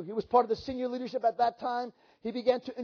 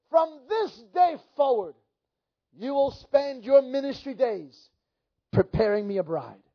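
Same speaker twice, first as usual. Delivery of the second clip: slow, emphatic voice of God; 3 semitones higher, 4 dB louder, slower than usual. Retold or imitated. Preacher retelling God's call to him, voice of God. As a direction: declare it slowly, as God giving a commission. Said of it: "I hear the voice of God say".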